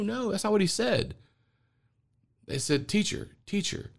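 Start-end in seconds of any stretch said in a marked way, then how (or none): 2.9-3.9 eager disciples. Retold or imitated. Disciples calling to their teacher.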